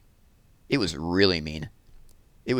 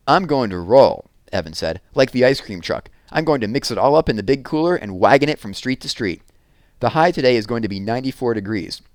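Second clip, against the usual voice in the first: cocky boasting; 3 semitones higher, 4 dB louder than usual. Acted. Evan boasting his plan.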